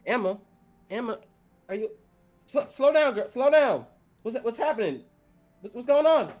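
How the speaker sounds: high, loud, frantic fatherly pleading; an old man yelling into the phone for his daughter; panicked old farmer. Acted. Old farmer shouting to his daughter on the phone, panicked.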